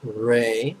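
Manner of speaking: "Ray" drawn out as in sun ray; pronunciation demo. Shown as a demonstration. Teacher repeats the second syllable for students, pronunciation demo. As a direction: say "Ray" as one long, separate syllable. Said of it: "like a sun ray".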